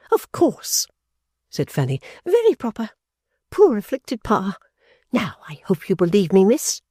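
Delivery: put-on high, sneering young woman; mock the sister with high disdain; Fanny sneering at her sister; scornful sister. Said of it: "the implacable Fanny".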